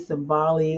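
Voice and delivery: "Simbali" with an open ah in the middle; pronunciation variant. Shown as a demonstration. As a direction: offer "Simbali", middle syllable like "bah". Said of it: "spelled and pronounced".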